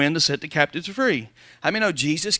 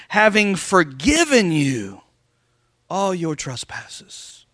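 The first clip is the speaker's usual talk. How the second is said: scripture preaching; 2 semitones higher, slower than usual. Acted. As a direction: proclaim the verses to the pews.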